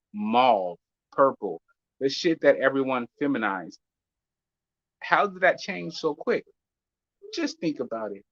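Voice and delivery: measured news anchor delivery; newscaster voice. Pretend. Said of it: "why do you do that newscaster voice".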